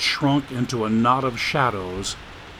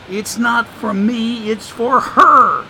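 put-on higher, sly voice of an old drifter; streetwise homeless man; 8 semitones higher, 5 dB louder, slower than usual. The speaker teasing Dagan about his concussion, sly drawl. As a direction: play the wisecracking drifter, amused.

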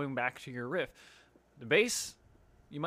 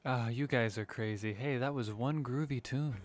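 teacher impression; 2 semitones lower than usual. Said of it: "if I was gonna do an impression of him".

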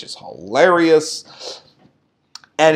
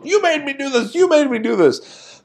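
retold wrestler's accusation; 9 semitones higher, 4 dB quieter than usual. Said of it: "and goes".

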